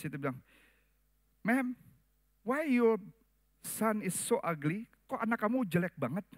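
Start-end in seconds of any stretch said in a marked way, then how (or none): 1.5-6.3 higher, mocking driver's voice, slowing on "son is so ugly"; rude bus driver. Bus driver insulting a mother about her baby, mocking. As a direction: sneer it like a careless driver.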